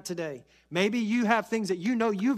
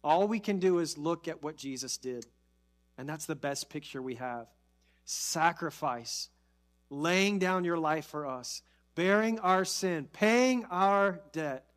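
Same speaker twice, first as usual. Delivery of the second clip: prayer; 3 semitones lower than usual. Acted. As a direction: pray gently with bowed head. Prayer continues.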